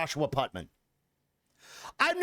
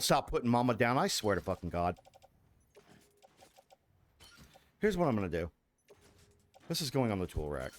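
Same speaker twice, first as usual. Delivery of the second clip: low menacing growl; 10 semitones lower, 3 dB quieter, faster than usual. Pretend. Low threatening voice to creature.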